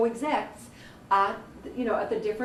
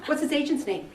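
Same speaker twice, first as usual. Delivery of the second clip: sharp raised grilling question, somewhat higher; Heidi drilling; 5 semitones higher than usual. Retold or imitated. Mentor grilling a student about contacts, mock-stern drilling. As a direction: fire the question like a ruthless mentor. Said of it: "she was screaming".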